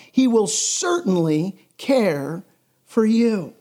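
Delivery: preacher reading Jesus' words, measured; scripture reading. Acted. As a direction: read the verses with pulpit weight. Reads scripture at length.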